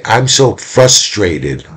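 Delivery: slow, stretched-out mock frustration; acted frustration. Shown as a demonstration. Teacher contrasting anger with frustration, slow and frustrated. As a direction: draw it out as an example of frustration. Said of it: "But if I say".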